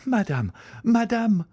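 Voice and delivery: high cry, climbing on the repeat; alarmed call, pitched very high. A narrator's reading. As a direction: urgently call someone upstairs. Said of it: "cried Valentine, calling her stepmother".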